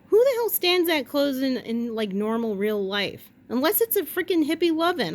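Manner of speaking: loud high outraged rant; indignant outburst. Real, not acted. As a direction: blurt it out, scandalized. Indignant rant about standing close.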